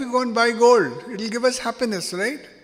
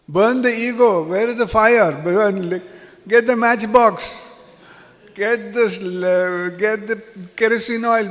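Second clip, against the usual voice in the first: hammed-up eager command, a bit louder; joking call to action; mock zeal; 3 dB louder than usual. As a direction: play the fired-up ego burner as a joke. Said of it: "yeah, it's just a joke".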